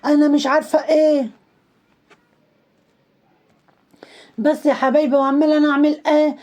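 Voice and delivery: a hint of a whiny, defiant girl; mocking the influencer. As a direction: mimic her snapping back at followers. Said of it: "وطالعة للمتابعين بصوا مستحلفة لهم".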